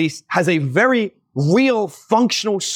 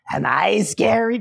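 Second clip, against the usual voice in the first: slow creepy taunt; 3 semitones higher than usual. Retold or imitated. Evil woman taunting the boy.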